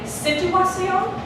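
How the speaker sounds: situación as SI-tuacion, slow and questioning; misplaced stress on first syllable. Shown as a demonstration. Teacher asks did she say it this way, exaggerated first-syllable stress in situación. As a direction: hit the front of situación, drawing it out. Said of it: "where is the emphasis of my voice".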